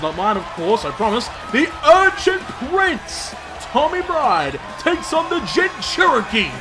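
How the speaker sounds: booming wrestling announcer hype; ring announcer. Acted. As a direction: sell each name to the arena.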